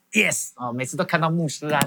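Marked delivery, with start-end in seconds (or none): 0.1-0.5 high, elated "Yes!"; a burst of mild triumph on one word; excited retold yes. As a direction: voice lifts with delight. Retells elated reaction to invitation.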